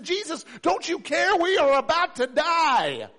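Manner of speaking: high, loud panic, slowing on the last words; terrified plea to wake him; desperate cry over the storm; frightened disciples. Acted. Disciples waking Jesus in storm.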